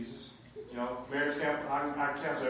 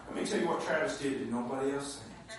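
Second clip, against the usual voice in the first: voice of the Lord. Retold or imitated. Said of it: "the Lord's like".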